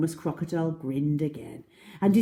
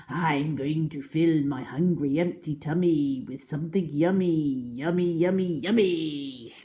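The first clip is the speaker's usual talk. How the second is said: louder, relishing yummy; greedy crocodile; 3 dB louder than usual. Acted. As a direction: lick your lips. Crocodile relishes coming meal.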